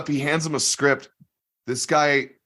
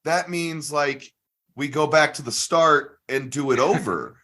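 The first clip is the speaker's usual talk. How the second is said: slow, higher, spelling it out; patient correction; 4 semitones higher, slower than usual. Retold or imitated. Comedian slowly explaining start over to volunteer, patient. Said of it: "So David stops him and is like".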